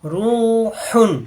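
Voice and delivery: রুহুন with the হু held long, slow recitation; stretched vowel. Shown as a demonstration. Teacher drawing out রুহুন for the class. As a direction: lengthen the হু in রুহুন one alif. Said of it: "এক আলিফ টানতে হবে".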